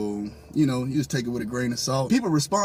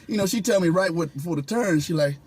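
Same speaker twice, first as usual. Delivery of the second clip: ordinary delivery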